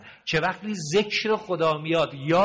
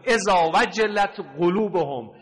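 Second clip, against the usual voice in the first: Quranic recitation; 2 semitones higher, slower than usual. Acted. Quran verse recited in sermon.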